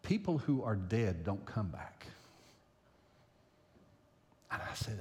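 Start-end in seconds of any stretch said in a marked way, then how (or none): 0.0-2.0 imitating a child stating the obvious, lower and understated; matter-of-fact child. Four-and-a-half-year-old correcting Poppy, matter-of-fact. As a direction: say it plainly, like a small kid setting grandpa straight. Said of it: "in that matter-of-fact four and a half year old look and tone of voice".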